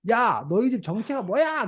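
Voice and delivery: slow, drawn-out exasperated question; mock angry teacher. Teacher confronting pupil over absurd answers, mock angry. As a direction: play at losing patience, without real volume. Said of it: "선생님이 화가 나갖고".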